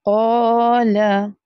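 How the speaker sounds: क़ाला with a long क़ा; stretched first syllable. Shown as a demonstration. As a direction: hold क़ा, short ला. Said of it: "So we have to stretch first part". (क़ाला खींच कर)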